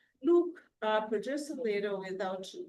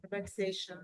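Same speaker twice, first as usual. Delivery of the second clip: underwater; faster than usual. Real, not acted. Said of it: "it kinda sounds like you're underwater".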